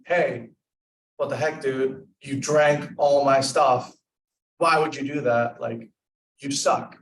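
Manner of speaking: a light demo of calling a friend out; accusing tone. Shown as a demonstration. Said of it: "You feel like that there's a different sense of, like, tone in there".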